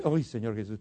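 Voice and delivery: low, hushed aside to God; retold chastened prayer. Preacher recalling catching himself shouting like his mother, chastened prayer. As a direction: drop suddenly to a small, quiet voice.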